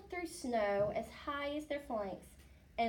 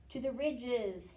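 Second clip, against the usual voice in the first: 1 proclaiming walrus; 4 dB louder, slower than usual. Acted. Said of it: "he proclaimed".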